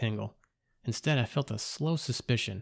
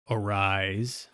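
gravelly intoning. A narrator's reading. Robed figure raising the dead narrator, whispered. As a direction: breathe it like a voice from the dark. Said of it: "a gravelly voice intoned".

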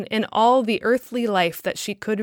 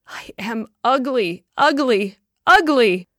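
building outburst; 2 semitones higher, 4 dB louder than usual. A narrator's reading. Woman's despairing outburst repeating ugly.

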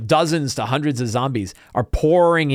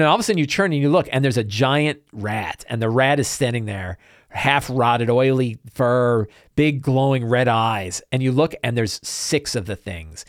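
deliberate, ominous description; game master scene setting. Acted. Game master revealing giant rats and a tear, ominous. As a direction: paint the horror piece by piece.

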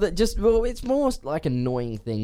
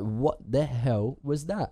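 baffled; much slower than usual. Retold or imitated. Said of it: "It's like".

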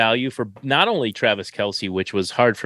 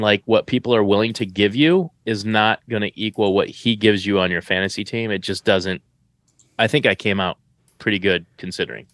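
talking while eating; words round a mouthful of chips; mouth full. Real, not acted. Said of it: "you're eating and talking on camera".

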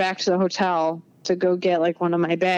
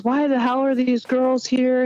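higher, slow mock outrage; a hint of an irate homeowner; retold angry demand; 6 semitones higher than usual. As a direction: voice the angry owner, drawn out. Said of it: "He goes".

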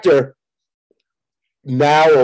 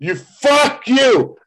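mock outraged squeal; 10 semitones higher, much slower than usual.

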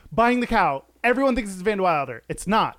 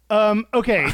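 loud okay; 4 semitones higher, 4 dB louder than usual. Real, not acted. Loud outburst after awkward pause.

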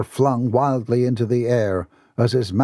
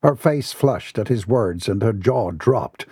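usual speaking voice

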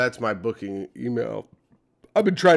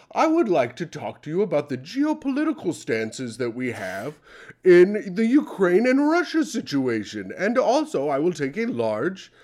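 mock-fancy customer, slowing down over the Ukraine line; annoying polite customer. Tim ordering coffee in a hammed-up refined voice. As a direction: lecture the barista in a prissy gentleman voice. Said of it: "as annoying as possible".

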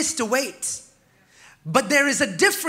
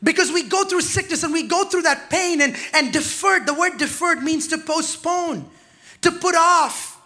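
preaching over music; 3 semitones higher than usual. Real, not acted.

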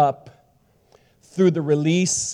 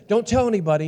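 put-on higher, eager voice of grown kids; excited secret-sharing; 6 semitones higher, faster than usual. Kids telling dad about the baby, excited warning. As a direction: imitate an excited warning to keep news secret.

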